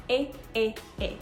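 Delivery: a said three times, clipped short; isolated vowel sound. Shown as a demonstration. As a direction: cut a off before the y glide. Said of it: "The sound for this is e".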